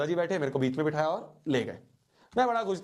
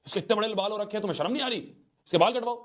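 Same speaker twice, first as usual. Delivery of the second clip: scolding grandfather; 6 semitones higher, faster than usual. Retold or imitated. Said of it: "दादाजी ... पापा को बोला".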